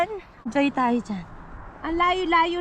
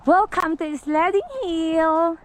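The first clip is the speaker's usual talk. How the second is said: excited host; 3 semitones higher, 4 dB louder than usual. Real, not acted. Host greets viewers.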